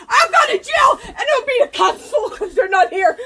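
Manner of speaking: furious, tearful shouting; crying while shouting. Real, not acted. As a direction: yell through real tears, high and loud.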